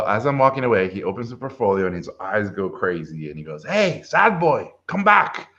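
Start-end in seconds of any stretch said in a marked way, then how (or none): 3.7-5.5 high, drawn-out mock holler; calling out. Reviewer summoning the student walking away, high retold call. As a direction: imitate someone calling after a person leaving.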